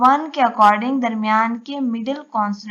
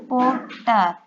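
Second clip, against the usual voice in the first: "पोर्टर" in two separate beats, पोर्ट and टर; syllable division; slower than usual. Shown as a demonstration. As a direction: pause inside "पोर्टर" before the last syllable. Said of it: "दोनों टी को अलग अलग कर सकते हैं". ("पोर्टर" को दो हिस्सों में तोड़कर)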